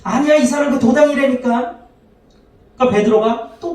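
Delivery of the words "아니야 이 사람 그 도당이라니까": put-on pitched high, servant girl pressing the bystanders; lightly voiced servant girl, high and insistent; insisting servant girl. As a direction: insist this man is one of them. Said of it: "옆에 있던 자들에게 다시 얘기합니다".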